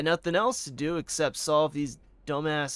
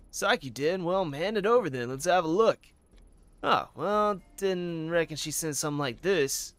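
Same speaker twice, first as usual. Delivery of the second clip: Southern detective, a little louder; Southern accent; 4 semitones higher, 4 dB louder than usual. Acted. Officer handed a letter from the front desk, Southern accent. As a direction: play a pleased Southerner, lively Southern twang. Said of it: "Southern accent".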